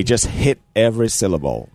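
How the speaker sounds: "hit every syllable" with each syllable struck separately; stress every syllable. Shown as a demonstration. Guest teaching host the accent, stressing "hit every syllable". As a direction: demonstrate by landing firmly on each part of "hit every syllable". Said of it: "I'm gonna teach you the accent".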